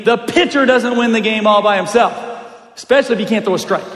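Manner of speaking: single the player out like a coach; retold coach's rebuke. Coach pointing at his pitcher son, pointed rebuke.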